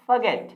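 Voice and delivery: forget as fuh-GET, no r; short "fuh" then a strong GET in forget; recommended pronunciation. Shown as a demonstration. Teacher telling friends what to say, recommended pronunciation. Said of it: "आप इसे बोले forget".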